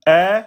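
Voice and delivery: eh said thin and light; 「eh」と薄く発音する誤り; wrong thin vowel. Shown as a demonstration. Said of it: "au lieu de dire".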